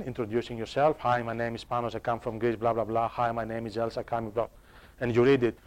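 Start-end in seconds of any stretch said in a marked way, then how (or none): 1.0-4.5 a quieter, bored recital of a self-introduction; mock monotonous intro. Online student introducing themselves, mock bored monotone. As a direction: drone through it like a bored student. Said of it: "it can be very monotonous online".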